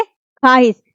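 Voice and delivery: ख्वाहिश as "khaahish", no "w"; "khaa-hish", straight from "kh" to long "aa"; silent vav. Shown as a demonstration. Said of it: "यहाँ पे जो वाव है ये मादुला है".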